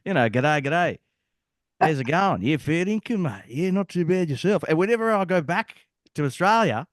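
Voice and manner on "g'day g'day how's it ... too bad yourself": lively mock Australian, a bit higher; Australian accent. Showing the accent he lost in Bosnia, Australian accent. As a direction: ham up the Aussie mate talk. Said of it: "I used to sound like a typical".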